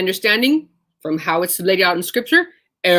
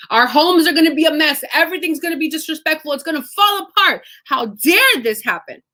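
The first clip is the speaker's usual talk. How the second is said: panicked; 6 semitones higher than usual. Retold or imitated. Nobles' panicked reaction voiced.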